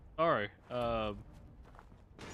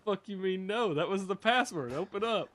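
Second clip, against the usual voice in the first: raised pitch, mock exasperation; retold demand to be let in; indignant protest; 4 semitones higher than usual. Character refused entry by the door, indignant.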